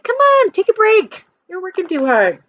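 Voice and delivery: high coaxing call to a busy friend. Acted. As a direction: come on, pull him away to play. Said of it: "his friends are like".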